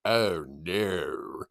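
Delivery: breathless whispered "oh no"; whispered dread. Retold or imitated. Fan watching the fumble happen, hushed whisper of dread. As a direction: whisper it as if disaster is coming. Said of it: "And then I was like".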